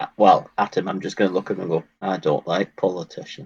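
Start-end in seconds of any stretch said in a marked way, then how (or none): 2.0-3.5 muttered quietly under the breath, quieter. Looking at a town official in character, under the breath. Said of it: "under my breath".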